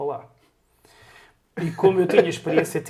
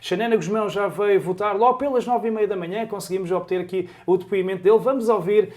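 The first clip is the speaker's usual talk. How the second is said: louder live radio correspondent voice; 4 semitones higher, 5 dB louder than usual. Retold or imitated. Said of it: "aquela voz daquela maneira que eles falam".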